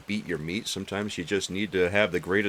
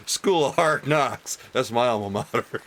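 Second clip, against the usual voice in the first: put-on quoting the old bit; 4 semitones higher than usual. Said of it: "You guys remember that old bit".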